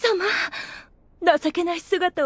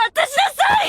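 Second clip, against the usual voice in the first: loud demand, pitch up; commanding shout; 13 semitones higher, 4 dB louder than usual. Acted. Albedo ordering Aura to hand over the item, loud demand.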